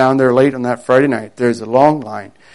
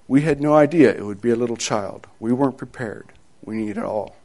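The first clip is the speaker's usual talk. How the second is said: grave doctor; 4 semitones lower, 8 dB quieter than usual. Acted. Doctor breaks grave news.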